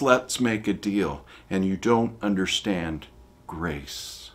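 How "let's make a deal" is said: slow, mock bargaining with God. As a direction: offer God a deal, slowly. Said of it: "No, that's".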